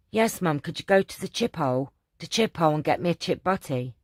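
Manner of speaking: put-on Yorkshire accent. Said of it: "that isn't very good accent".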